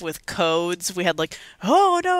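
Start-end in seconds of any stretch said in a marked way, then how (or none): 1.6-2.2 high, loud cry of mock dismay; mock alarm. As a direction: play up the panic, pitched way up. Acting out childhood emergency codes.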